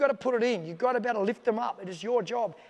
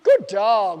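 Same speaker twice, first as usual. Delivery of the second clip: loud, high barked commands; shouted dog commands; 6 semitones higher, 10 dB louder, much slower than usual. Shown as a demonstration. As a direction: shout each command with strong tone, then praise. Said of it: "There's a lot of tone in that".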